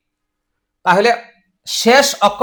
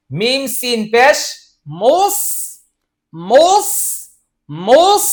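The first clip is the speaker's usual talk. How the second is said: loud drill; 3 semitones higher, slower than usual. Shown as a demonstration. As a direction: repeat মোস loudly and higher each time. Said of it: "জোরে জোরে বলতে হবে".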